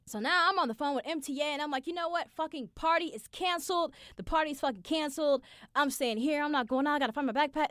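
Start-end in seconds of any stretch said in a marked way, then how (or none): 1.9-7.7 higher, louder panicked rant; panicking. Retold or imitated. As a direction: spiral into panic.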